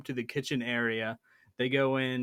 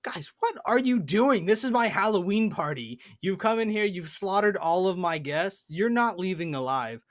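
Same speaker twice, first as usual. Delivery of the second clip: high, loud, outraged host voice that settles toward the end; Death Knight; 6 semitones higher, 4 dB louder than usual. Retold or imitated. Death Knight confronting goblins who slaughtered his guests, loud and outraged. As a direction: play an offended villain whose party got crashed. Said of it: "there's a Death Knight in the room going".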